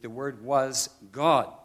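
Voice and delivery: "God" set apart with firm emphasis; stress on GOD. Shown as a demonstration. Preacher giving the bottom line, "God" strongly emphasized. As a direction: land firmly on "God". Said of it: "in the most emphatic way possible".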